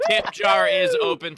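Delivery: high, slow, loud pitch call; drawn-out announcement. Acted. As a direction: call it out like a carnival barker. Host pitching the tip jar.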